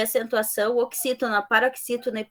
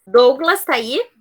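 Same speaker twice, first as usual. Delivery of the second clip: louder, slower roll call; 2 semitones higher, 7 dB louder, slower than usual. Real, not acted. Teacher calling a missing student's name, louder and drawn out.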